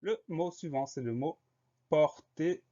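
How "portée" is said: "portée" split into por-té, pitched up; higher dictation voice, "portée" in two separate beats; syllable by syllable. Shown as a demonstration. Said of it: "Deux syllabes, première syllabe".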